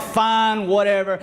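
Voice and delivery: grudging, sarcastic giving in. Acted. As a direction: give in with mild sarcasm. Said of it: "Peter's just sarcastic".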